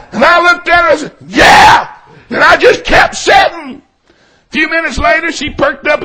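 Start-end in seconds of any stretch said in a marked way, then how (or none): 1.3-1.9 exasperated retort. Retold or imitated. Snapped answer to wife, mid-argument.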